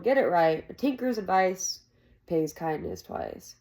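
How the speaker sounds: firm, grumbling correction. Acted. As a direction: set the saying straight. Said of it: "Jake grumbled".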